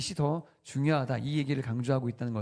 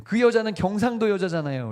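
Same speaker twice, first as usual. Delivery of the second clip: higher, louder indignant snap; resentful retort; 6 semitones higher, 7 dB louder than usual. Retold or imitated. Boy answering God about his stepmother, indignant. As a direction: spit it out like a hurt, angry boy. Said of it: "이렇게 대답했대요".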